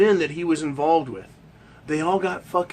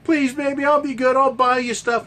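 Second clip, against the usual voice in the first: hammed-up pleading man; mock begging husband; 4 semitones higher than usual. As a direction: beg like a desperate boyfriend. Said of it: "Starts begging".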